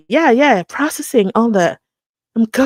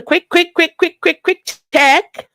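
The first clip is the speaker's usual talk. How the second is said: higher, sing-song repeated quick; excited; 9 semitones higher than usual. Real, not acted. Vlogger checking subscriber count, playful excited sing-song. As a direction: build the suspense playfully.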